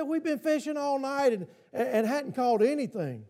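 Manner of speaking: lightly sarcastic fisherman. Retold or imitated. Peter grumbling to Jesus after a long night, sarcastic. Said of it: "I can hear the sarcasm in his voice".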